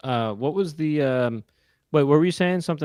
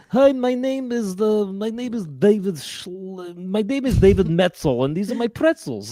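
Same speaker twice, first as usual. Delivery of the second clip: pitchman voice; 5 semitones higher, slower than usual. Acted. Pitchman voicing Metzel.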